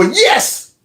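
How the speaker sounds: high gleeful yelp; imitating a gleeful coworker's cheer; mock cheer. Mock coworker cheering Kirk's death.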